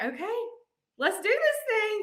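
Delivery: rally yourself, eager; excited. Retold or imitated. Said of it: "we were like".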